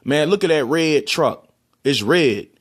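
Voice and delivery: RED said like "rid"; casual Baltimore RED, close to "rid"; Baltimore pronunciation. Shown as a demonstration. Baltimorean pointing out a truck, RED as "rid". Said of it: "would pronounce it red".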